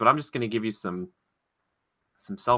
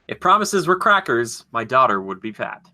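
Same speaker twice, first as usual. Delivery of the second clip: mock character quote. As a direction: ham up the old man's line. Quote clue performed.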